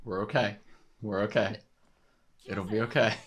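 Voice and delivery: quiet, soothing murmur; soft reassurance. Real, not acted. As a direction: reassure gently, keeping the volume down. Soothing self during tense scene.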